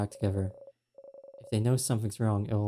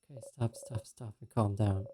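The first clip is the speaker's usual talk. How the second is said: calming herself; 5 dB quieter than usual. Acted. Alone in a stall, quietly calming her own panic. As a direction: hush yourself down, stop by stop.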